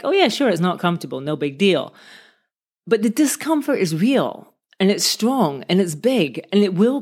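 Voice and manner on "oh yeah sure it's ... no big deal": fast, offhand "no big deal" tone; mock breezy dismissal. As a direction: brush it off quickly, mocking. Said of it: "it always sounds like".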